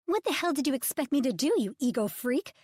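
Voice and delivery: high-pitched, strained and loud; shrill outburst at a man she chased down; high strained yell. Acted. Publicist yelling at Ridge, high and strained. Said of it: "her voice high-pitched and strained".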